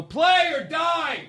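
put-on bully the old drummer for laughs; a pretend threat to the ninety-year-old drummer; mock command. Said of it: "and I would go".

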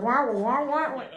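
muffled wah wah trombone voice; Charlie Brown teacher noise. Retold or imitated. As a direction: mimic the muted trumpet teacher. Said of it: "Charlie Brown teacher noise".

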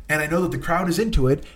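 ordinary talk, nothing marked

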